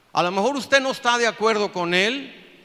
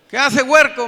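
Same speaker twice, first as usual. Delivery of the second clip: very loud, high outburst; irate scolding; 7 semitones higher, 12 dB louder than usual. Retold or imitated. Pastor woken at night to the young man outside, scolding loudly. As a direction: bellow at whoever woke you up.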